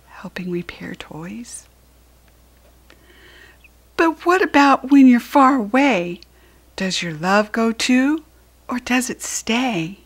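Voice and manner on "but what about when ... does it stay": put-on high, loud pleading child voice; small child asking. Small asking Large about love, a high pleading child voice. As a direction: ask anxiously like a little one.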